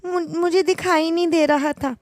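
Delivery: bride's mother stammering to hide her blunder; flustered bride. Acted. Bride and mother cover mistake. (घबराई हुई, ऊँची आवाज़ में बहाना बनाती माँ)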